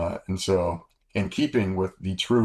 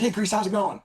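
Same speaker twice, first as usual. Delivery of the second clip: bright high mock greeting from a woman; lightly voiced wife calling out hello; high imitated woman's greeting; 14 semitones higher than usual. Woman calls to pilot in commissary, high greeting. Charlene greets him again.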